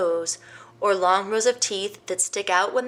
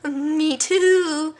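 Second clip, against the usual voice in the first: laughing hyena; 9 semitones higher, 6 dB louder than usual. Acted. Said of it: "put in with a laugh".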